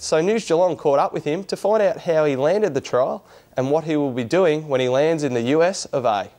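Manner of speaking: bright, measured news presenter read; presenter delivering a news piece to camera. Acted. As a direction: read it like the evening sports bulletin. Presenter reads news intro.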